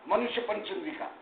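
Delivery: usual speaking voice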